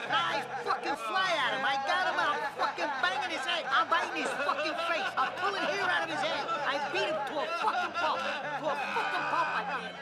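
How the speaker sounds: laughing while bragging about the fight; laughing through it. Real, not acted. Man laughs as he tells friends about beating a guy.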